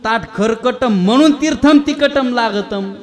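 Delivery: pseudo-Sanskrit retort, dragging out the -am endings; wife's mock Sanskrit. Wife answers her foolish husband about the dirty plate, mock Sanskrit retort. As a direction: scold lightly in a stretched mock chant. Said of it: "बायकुनी सांगितलं".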